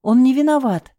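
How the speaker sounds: high, loud desperate plea; frantic shout. Acted. Wife screaming to free her husband, frantic. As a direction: scream it to save him.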